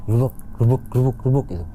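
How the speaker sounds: punchy repeated thumping sounds; imitated rummaging noise. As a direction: mimic a box being shifted about. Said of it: "kayak ada orang benerin peti".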